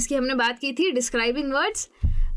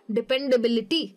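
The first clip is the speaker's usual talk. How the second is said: "डिपेंडेबिलिटी" with BIL brought out; dependaBILity, third-last syllable stressed. Shown as a demonstration. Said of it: "बे पे मेरा ज़्यादा stress".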